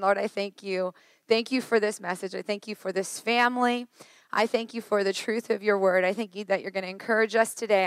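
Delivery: gentle spoken prayer before a message. Real, not acted. Leads the congregation in prayer.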